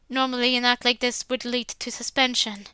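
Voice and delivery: usual speaking voice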